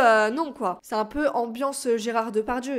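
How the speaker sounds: normal talking voice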